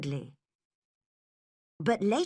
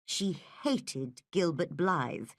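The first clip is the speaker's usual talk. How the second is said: plain reading voice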